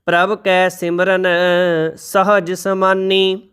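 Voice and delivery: slow, measured reading of sacred verse; scripture recitation. Shown as a demonstration. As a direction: recite each line slowly and reverently.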